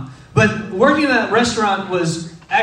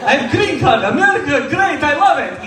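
higher hammed-up Ukrainian accent; Borat-style Ukrainian accent; 5 semitones higher than usual. Fake Ukrainian waiter answers amazed Texans in a hammed-up Ukrainian accent. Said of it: "going full Borat".

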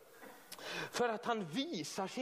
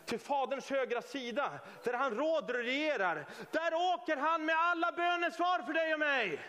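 preach; 4 semitones higher than usual. Real, not acted. Preacher proclaiming victory to the congregation, building preach.

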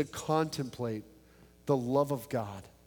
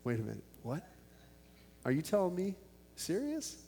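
stunned disbelief; 3 semitones higher, 8 dB quieter than usual. Retold or imitated. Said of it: "And I was like".

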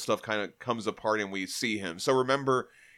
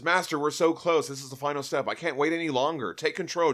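impatient urging; 5 semitones higher than usual. Retold or imitated. Glorian urging the Shaper to choose, high eager plea. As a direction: push him to act now.

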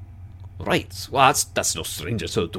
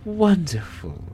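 delighted laughter; 2 semitones higher than usual. Acted. Susurrus praises Lyra's joke, laughing. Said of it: "the professional quiet mask ... shatters".

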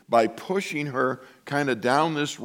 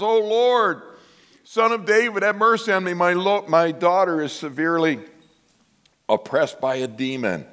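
high, pleading cry that fades at the end; 4 semitones higher than usual. Retold or imitated. Mother begging Jesus to heal her daughter, pleading cry. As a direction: beg him like a desperate mother. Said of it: "she tells him what it is".

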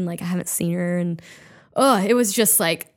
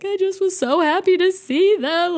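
retold crying; 10 semitones higher, 4 dB louder than usual. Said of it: "started crying again and was like".

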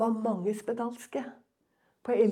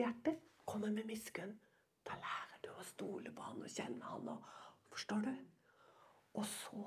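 soft, half-whispered sermon; hushed preaching; 7 dB quieter than usual. Acted. Preacher confiding to the congregation, hushed. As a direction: lean in and almost whisper to the flock.

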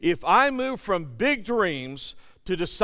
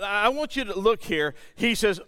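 normal talking voice

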